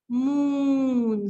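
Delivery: "Moon" said whole after sounding out; blended word. Shown as a demonstration. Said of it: "blend the sounds".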